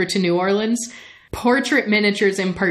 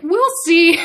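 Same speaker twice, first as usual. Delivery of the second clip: much higher, louder coy retort; teasing singsong; 10 semitones higher, 5 dB louder than usual. Retold or imitated. Lestat answers Talbot's refusal, high teasing taunt. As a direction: sing it out like a knowing taunt.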